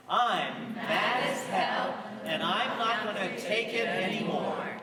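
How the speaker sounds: slow, heavy "I'm mad as hell" with stress on mad; ranting demo. Shown as a demonstration. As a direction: rant it out like a fed-up newsman. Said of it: "could everybody just say that".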